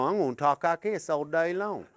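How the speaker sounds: different voice. Shown as a demonstration. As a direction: talk in your new daily voice.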